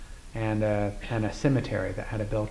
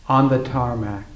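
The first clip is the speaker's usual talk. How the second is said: measured poetry reading with deliberate pauses; poem recital. Acted. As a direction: read it as verse, phrase by phrase, each opening firmly placed. Reads a poem aloud.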